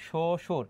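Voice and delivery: "শ্বশুর" said sho-shur, single sh, no b; no doubling. Shown as a demonstration. Teacher showing the exception to students, "শ্বশুর" as sho-shur. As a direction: keep both sh sounds single in "শ্বশুর". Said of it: "দ্বিত্ব উচ্চারণ হচ্ছে না".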